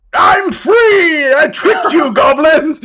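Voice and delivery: high, gloating holler; loud triumphant shout. Acted. Escaped ogre to the goblins, loud triumphant shout. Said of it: "like, a loud sort of".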